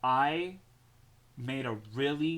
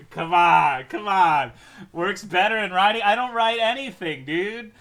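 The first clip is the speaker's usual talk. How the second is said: loud, much higher shouting protest; yelling across the room; 8 semitones higher, 13 dB louder than usual. Real, not acted. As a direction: yell at chat in disbelief. Reacting loudly to chat.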